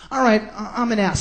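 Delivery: reluctant mock guest giving in; mumbly, unconvinced imitation of a guest; half-hearted admission. Guest giving in to TV host, half-hearted. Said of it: "Say it like you mean it".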